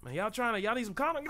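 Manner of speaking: high needling bat voice; nosy bat voice. Retold or imitated. Bats prying into the player's business in high voices. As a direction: pester them like an annoying bat. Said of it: "these bats like".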